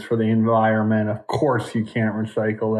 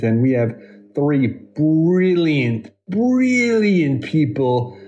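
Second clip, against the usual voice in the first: hype announcer voice; 4 semitones higher, much slower than usual. Acted. Hyping up the guests.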